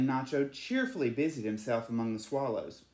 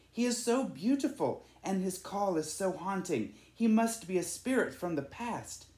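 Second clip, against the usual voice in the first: hushed admirer; 6 semitones higher than usual. A narrator's reading. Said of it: "someone whispered".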